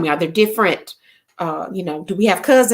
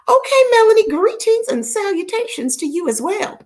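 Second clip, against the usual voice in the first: excited greeting; 12 semitones higher than usual. Real, not acted. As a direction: call out her name with delight.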